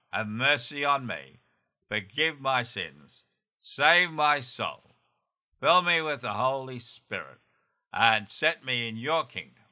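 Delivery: slow prayer with a lifted save my soul; slow led prayer. Shown as a demonstration. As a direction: lead the prayer one last time, slowly. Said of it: "One more time".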